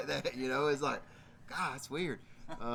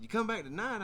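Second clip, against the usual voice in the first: higher, questioning repeat; puzzled question, pitched up; surprised echo question; 5 semitones higher than usual. Retold or imitated. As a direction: check it back in disbelief. Teller echoes it back as question.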